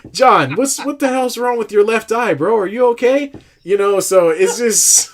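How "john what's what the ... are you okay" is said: higher and louder, laughing through the words; laughing mock question. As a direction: tease him while cracking up. Mocking Gruden, laughing.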